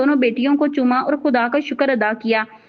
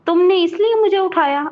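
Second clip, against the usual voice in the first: annoyed; 5 semitones higher than usual. A narrator's reading. Annoyed husband woken early.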